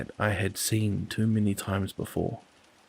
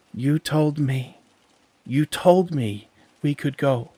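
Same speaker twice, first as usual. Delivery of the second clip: slow, higher and louder, leaning on told; hurt accusation; 7 semitones higher, 7 dB louder than usual. Acted. Andy accuses Joel of breaking his word, slow and loud. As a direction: throw his promise back at him. Andy confronts Joel's broken promise.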